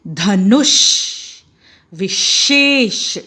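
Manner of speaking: धनुष and विशेष said slowly, with the ष pushed out forcefully; slow, deliberate ष with lots of air; stressed sh. Shown as a demonstration. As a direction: lean hard on the ष in विशेष. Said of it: "बड़े ज़ोर से श की आवाज़ आती है".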